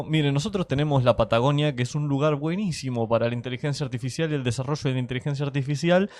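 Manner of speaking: imitating a cheto upper-class Argentine accent; posh argentine spanish. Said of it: "Me encanta la imitación del tono de Cheto".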